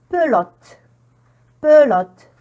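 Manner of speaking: Pelote with the first E as a full "eu"; eu sound modelled. Shown as a demonstration. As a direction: model Pelote loudly as "peu-lote". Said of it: "c'est le son E". (Pelote, le premier e prononcé « eu »)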